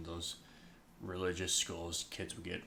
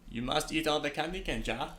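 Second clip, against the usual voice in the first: hammed-up German accent, raised pitch; mock German accent; 4 semitones higher than usual. Host teasing cohosts in a mock German accent. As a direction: put on a jokey German accent. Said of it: "How would I do a German accent?".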